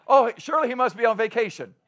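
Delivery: lightly sarcastic mock excuse; playful taunt with a laugh in it. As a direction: tease with pretend sympathy. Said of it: "he's mocking them".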